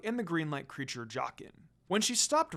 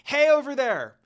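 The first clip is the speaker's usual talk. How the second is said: loud calling shout; 8 semitones higher, 11 dB louder than usual. Acted. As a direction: call out to the bear across the distance. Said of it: "Kagome shouted at the bear".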